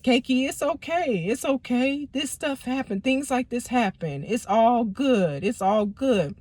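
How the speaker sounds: calm her daughter down gently; soothing mom. Retold or imitated. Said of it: "rubbing my arm and stuff and telling me".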